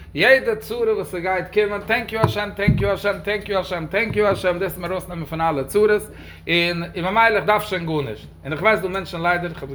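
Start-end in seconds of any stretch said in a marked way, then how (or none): 1.9-4.6 imitating a mechanical chant of a phrase; mock recitation, each repeat alike; rote repetition. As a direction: reel it off over and over, like a formula.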